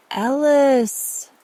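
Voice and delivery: loud, high call across a square; sudden joyful shout of greeting. A narrator's reading. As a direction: shout the name, high and drawn out, falling at the end. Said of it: "regretted the volume".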